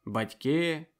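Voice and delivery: rousing speech to a village meeting; impassioned orator at an assembly; public speech. Acted. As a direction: address the crowd with conviction.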